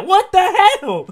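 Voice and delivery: cracking up in disbelief; what the hell, laughed out loud; laughing disbelief. Real, not acted. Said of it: "I'm so surprised".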